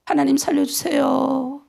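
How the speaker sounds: slow, sobbing cry for help; a tax collector weeping before God; tearful plea. Retold or imitated. The weeping tax collector begs God, tearful and slow. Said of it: "펑펑 우는 거예요".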